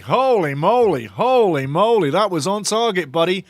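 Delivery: loud, amazed whoop of commentary; amazed outburst. Real, not acted. Fan reacting to a shot on target, amazed. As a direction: stretch it out in loud astonishment.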